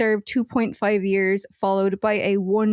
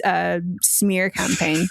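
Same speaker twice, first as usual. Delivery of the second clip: mock whisper; 3 semitones lower, slower than usual. Mocking the killer's claim.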